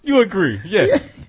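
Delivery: insistent mock Russian accent; bad Russian accent. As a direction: do a comic Russian pressing his point. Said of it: "That's a terrible Russian accent".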